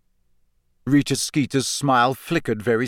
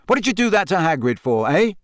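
angry demand; 6 semitones higher, 3 dB louder than usual. A narrator's reading. Harry confronts Rita angrily.

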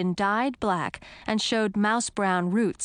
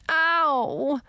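high, drawn-out yelp of pain; moaned "ow"; 7 semitones higher, 3 dB louder than usual. A narrator's reading. Frog prince hurt in the sack, moaning. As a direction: moan from a bumped head. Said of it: "moaned Edric".

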